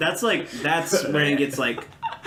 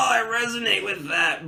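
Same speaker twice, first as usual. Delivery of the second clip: hippie voice; 7 semitones higher than usual. Retold or imitated. Mocking a hippie.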